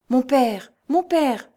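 urgent high-pitched repeated call; frightened stammer. A narrator's reading. Cantinière appeals to the monk after the whistle, frightened stammer. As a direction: call out twice in rising alarm. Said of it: "balbutia-t-elle".

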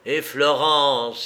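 slow, loud gloating cry of a name; exclaiming. Acted. The bandit gloats to Lupin, loud slow exclaim. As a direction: crow the name out slowly. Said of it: "s'exclama-t-il".

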